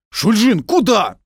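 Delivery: loud, high shout of a name; calling out. Acted. Lieutenant shouting to wounded Shulzhin. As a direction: call across to him.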